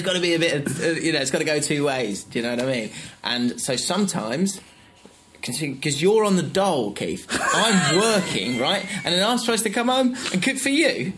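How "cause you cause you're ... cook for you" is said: giggling fake argument; mock-scold while laughing; laughing mock rant.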